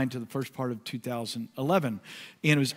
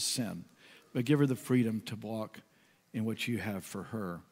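retold prayer. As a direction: pray gently over her.

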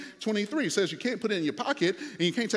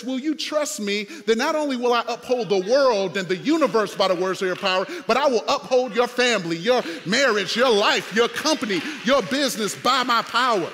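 louder and louder, building to a shout as God; rising to a full preaching shout; 6 dB louder than usual. Acted. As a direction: proclaim it like God rousing the church. Voicing God, preaching at full force.

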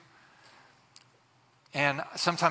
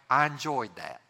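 put-on Southern accent; 2 semitones lower than usual. Churchgoer to preacher after the sermon, Southern accent. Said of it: "a little Southern accent".

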